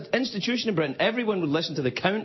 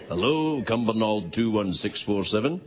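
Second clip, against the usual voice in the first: posh phone voice; 8 semitones lower than usual. Retold or imitated. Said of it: "pick it up and go".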